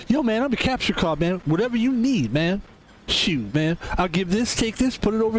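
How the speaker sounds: high, laid-back dude voice; capture card voice. Pretend. The streamer voices his capture card, high laid-back dude. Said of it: "that's how my capture card talks".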